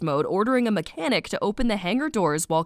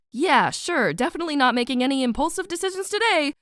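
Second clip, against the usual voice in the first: higher, hurried sarcastic assurance; breezy false agreement; 5 semitones higher, faster than usual. Acted. Mare brushing off Cal's warning, quick sarcastic agreement. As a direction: rush through an unconvincing promise.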